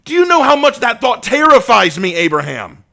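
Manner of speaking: anguished shouting lament. Acted. Asher lamenting his thirst to Abraham, anguished shouting. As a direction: cry out your torment.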